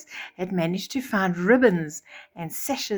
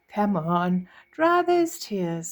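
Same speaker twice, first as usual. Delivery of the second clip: gentle voice; slower than usual. Acted. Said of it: "said a gentle voice".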